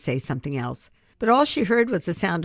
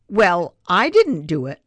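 defensive; 3 semitones higher, 8 dB louder than usual. Acted. Amanda defensive, arms crossed.

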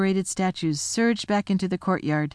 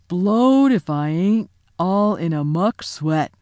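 slow, louder yokel giant, winded; puffing giant; 4 dB louder, slower than usual. Acted. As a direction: puff it out like a tired giant. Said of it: "puffing like the largest railway engine".

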